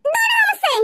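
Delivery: high, panicked cry; startled fear; frightened. Acted. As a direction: still caught in the nightmare. Waking from nightmare, still scared.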